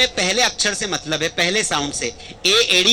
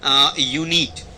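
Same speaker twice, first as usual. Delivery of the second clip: यूनिट stretched slowly, low; slow dictation; 5 semitones lower, much slower than usual. Shown as a demonstration. Teacher writing a word on the board, slowly. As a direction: draw out यूनिट for the class. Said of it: "मैंने यहाँ पे लिख दिया".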